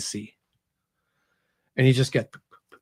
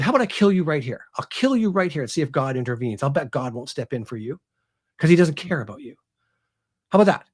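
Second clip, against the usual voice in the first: retold threat, pitched up at the start and end; emotional outpouring; 2 semitones higher, faster than usual. Author voices Aramis threatening the priest, mildly heated taunting. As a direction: taunt him with a touch of menace. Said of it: "it's a real emotional outpouring".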